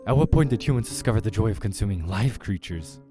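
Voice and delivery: lightly voiced indignant creature; haughty creature, incredulous. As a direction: demand it like a baffled predator. Creature diner in the story, incredulous.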